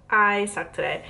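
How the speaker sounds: stuffy nose from being sick; congested sick voice. Real, not acted. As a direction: talk through a blocked nose. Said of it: "my atrocious voice".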